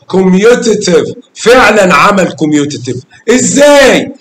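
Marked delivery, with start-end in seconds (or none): 3.3-4.1 surprised how. Real, not acted. Teacher challenging pupil's answer.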